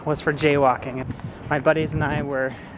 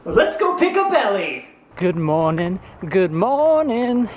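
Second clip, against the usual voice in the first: excited; 4 semitones higher, 4 dB louder, slower than usual. Real, not acted. Cheerful greeting to camera.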